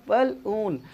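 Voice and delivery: बलून in two parts, bal - oon; short 'bal', then long 'oon' in बलून; model pronunciation. Shown as a demonstration. Teacher repeating how it is said, split demo. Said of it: "इस तरह कहता है".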